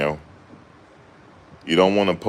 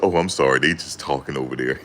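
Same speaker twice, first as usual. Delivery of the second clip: mock polite; 4 semitones lower than usual. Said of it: "turned it on and off".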